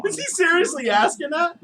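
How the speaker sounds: laughing in disbelief. Real, not acted. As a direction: crack up while asking. Laughing at the Alexa question.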